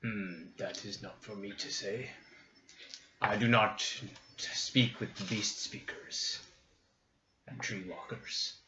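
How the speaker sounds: lightly voiced gruff orc. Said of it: "Orc voice".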